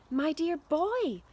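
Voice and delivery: loud, slow gushing call; cried. A narrator's reading. Dad crying out to George in excitement. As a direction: draw it out with delight. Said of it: "cried Mister Killycranky".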